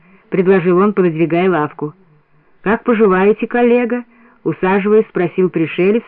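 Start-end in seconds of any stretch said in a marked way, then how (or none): 2.6-4.0 painstakingly pronounced Russian words; lightly voiced, careful foreign guest; careful foreign enunciation. A narrator's reading. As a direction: pronounce each word with a foreigner's care. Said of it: "старательно выговаривая русские слова".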